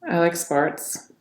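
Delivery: slow, downbeat negativity; negative. Shown as a demonstration. Coach demonstrating negativity in tonality, negative. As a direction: stretch it out with no enthusiasm.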